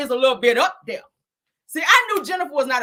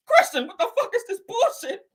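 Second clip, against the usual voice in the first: high, half-laughing accusation; mock angry demand; 9 semitones higher than usual. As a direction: confront him, almost laughing. Wife confronting husband again.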